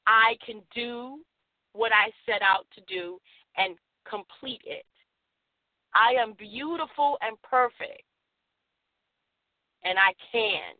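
slow, low, deliberate affirmation, lines spaced out; affirmation to repeat. Shown as a demonstration. Host leading listeners in self-affirmation, slow and low. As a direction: say it calmly so they can echo you. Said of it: "Repeat after me".

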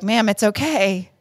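slow, soothing imitation of an officer; talking real slow. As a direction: imitate someone patiently calming a flustered driver. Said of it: "he's talking to me real slow".

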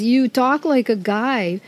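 slow, put-on Mamaroneck, New York accent; slow Mamaroneck-accented sweet talk, played for laughs. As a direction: imitate a tough guy's Mamaroneck drawl. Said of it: "in his total Mamaronic, you know, sort of accent".

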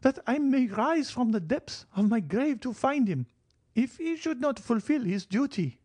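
put-on high, eerie old grandmother's threat; fearful old lady. Grandmother vowing to rise from the grave, high and eerie. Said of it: "with a fearful expression".

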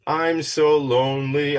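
slow, drawn-out pretend loneliness; hammed-up lonely plea; mock lonely whine. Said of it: "I don't wanna leave you".

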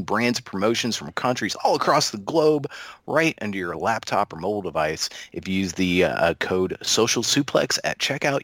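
upbeat pitchman sell; lightly hyped sponsor read for podcast listeners. Acted. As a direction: sell it like a radio spot. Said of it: "do you want to do the ad read again".

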